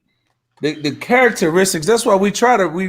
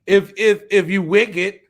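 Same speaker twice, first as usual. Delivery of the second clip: high-pitched put-on voice of the oppressors; voicing the wicked oppressors; 11 semitones higher than usual. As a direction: speak as the scheming nations, pitched well up. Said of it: "the spirit that they walked around in".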